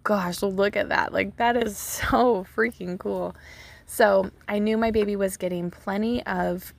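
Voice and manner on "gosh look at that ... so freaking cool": retold amazement. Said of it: "I was, like, amazed".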